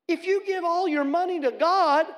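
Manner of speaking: high, loud exasperated dad; loud, high disbelief at the son; dad's loud retort. Retold or imitated. Pastor mocks his own loud fatherly outburst at his son. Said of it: "now this is me".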